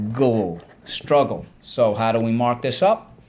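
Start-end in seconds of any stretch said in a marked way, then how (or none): 0.1-0.6 gle said alone as a clear syllable; syllable drill. Shown as a demonstration. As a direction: say gle as its own beat. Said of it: "Second syllable".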